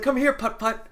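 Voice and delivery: lightly mocking high-pitched call; imitated daughter calling. Daughter's call quoted again.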